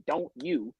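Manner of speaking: "Don't you" with a clear t, not run together; "Don't you" as two distinct words, not "chew". Shown as a demonstration. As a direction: keep the t in "Don't you" crisp and separate. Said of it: "I don't say chew, I say".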